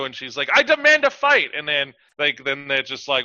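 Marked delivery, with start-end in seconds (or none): 0.5-1.5 high, loud mock challenge; pitched-up, hammed-up insistence; mock demand. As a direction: demand it loudly, imitating an indignant fighter. Acting out a character's angry demand.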